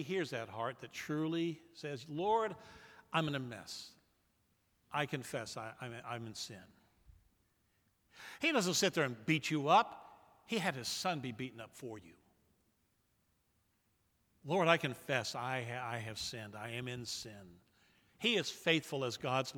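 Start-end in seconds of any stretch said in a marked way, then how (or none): 2.1-6.6 humble quiet confession. Acted. 14.5-17.6 soft, low admission of sin; hushed confession. Acted. Voices humble confession.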